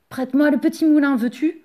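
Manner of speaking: impatient, pushy asking; eager demand. A narrator's reading. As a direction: cut in greedily, rushing the words. Jealous Yvon cuts in, demanding.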